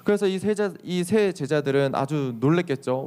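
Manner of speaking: usual speaking voice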